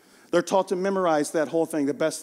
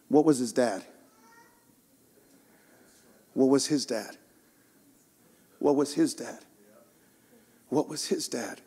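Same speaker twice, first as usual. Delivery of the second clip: fading rhetorical question; 8 semitones lower, 6 dB quieter than usual. Acted.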